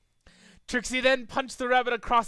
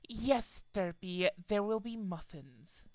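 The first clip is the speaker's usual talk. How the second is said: soft, tired sigh; weary reply; 8 dB quieter, slower than usual. A narrator's reading. Trixie answering Derpy, soft and tired. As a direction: give in wearily.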